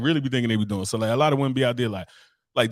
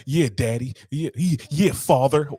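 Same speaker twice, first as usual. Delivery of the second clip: mock dirty talk; 2 semitones higher, slower than usual. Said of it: "They have to like".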